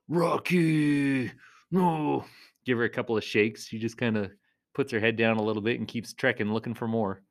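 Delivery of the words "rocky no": mild scolding. Retold or imitated. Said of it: "say her name, like, kinda".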